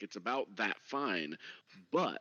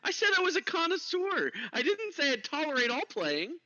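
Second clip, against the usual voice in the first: raised dwarf voice, indignant; indignant dwarf, pitched up; high dwarf voice; 4 dB louder than usual. Acted. Dwarf character protests.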